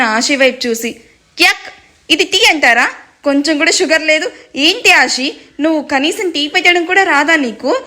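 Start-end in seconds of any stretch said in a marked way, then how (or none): 1.4-7.8 angry yelling. Acted. Husband yelling at Ashi over bad tea, angry yelling. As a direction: spit out the tea and yell at her. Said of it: "అరుస్తూ ఉన్న ఆయుష్".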